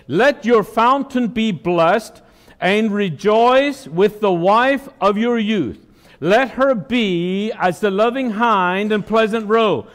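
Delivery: slow, measured Bible reading; preacher intoning a verse; scripture reading. Real, not acted. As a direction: read the verse out deliberately. Reads Proverbs aloud.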